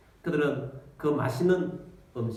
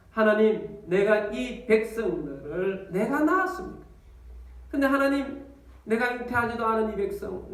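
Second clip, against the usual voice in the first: anguished prayer; 6 semitones higher than usual. Acted. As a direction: plead to God in anguish. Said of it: "그래서 하나님께 기도합니다".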